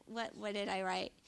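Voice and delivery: usual speaking voice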